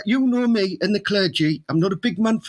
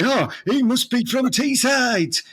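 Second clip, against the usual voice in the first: vicar's verdict; 3 semitones higher, slower than usual. Retold or imitated. Imagined vicar concludes about the accent.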